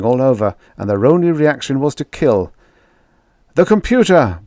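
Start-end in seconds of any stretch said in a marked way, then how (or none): 3.5-4.4 bellowing the word out high and loud; bawled. A narrator's reading. Holbrook bawling to his comrades. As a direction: bawl it across the room. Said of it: "bawled Holbrook".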